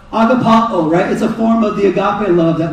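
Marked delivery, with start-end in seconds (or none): 0.1-0.9 Prescott Valley accent. Shown as a demonstration. Pastor teaching the Greek word in a Prescott Valley accent. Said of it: "in a Prescott Valley accent for Greek".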